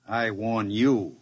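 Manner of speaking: slow, deliberate counter-threat; slow menacing reply. Acted. Duke threatening the professor back, slow and cold. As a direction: turn his own words back on him.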